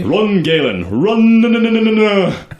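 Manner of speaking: high, loud frantic cry; father crying out. Acted. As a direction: scream at your son to flee. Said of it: "cries your father".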